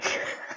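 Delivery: short soft snort of laughter. A narrator's reading. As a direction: snort at the silly name. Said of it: "Lily snorted with laughter".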